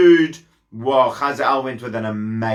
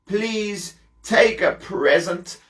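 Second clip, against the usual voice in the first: a higher, feeble sick king's voice; 6 semitones higher than usual. Acted. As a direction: play the ailing king asking a favour. Sick king Ben-Hadad voiced.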